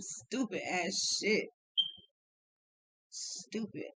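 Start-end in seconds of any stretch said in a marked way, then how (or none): 3.1-3.9 whispered scoff. Real, not acted. Muttered disgust.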